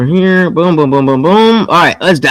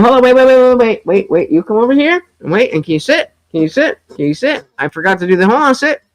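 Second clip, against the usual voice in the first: coaxing the dog; 4 semitones higher, 3 dB quieter, much faster than usual. Real, not acted. Talking to his dog.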